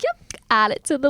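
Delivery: a proud little brag to herself; smug pride. Retold or imitated. Bragging about her five-star reviews, smug and pleased. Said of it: "I'm like".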